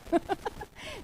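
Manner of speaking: short high-pitched laugh; amused laugh. Retold or imitated. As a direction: burst of amusement at a confided secret. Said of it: "le dio risa".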